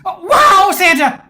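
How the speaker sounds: loud, high delighted shout; a kid's thrilled yelp at Santa's gift; excited kid shout. Acted. Kid sees train set.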